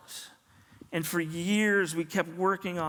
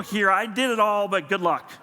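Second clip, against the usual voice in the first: wry handoff; 2 semitones higher, 5 dB louder than usual. Retold or imitated. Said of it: "give it to my dad and go".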